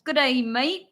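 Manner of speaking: amateur Aussie imitation; attempted Australian accent. Shown as a demonstration. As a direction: play at being Australian, movie-style. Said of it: "And then Australian".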